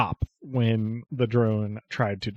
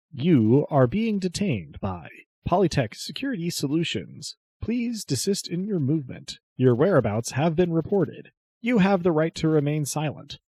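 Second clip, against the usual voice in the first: lightly voiced synthesized drone; robot voice; 5 semitones higher than usual. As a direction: recite like a security robot on a loop. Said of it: "a little synthesized voice going".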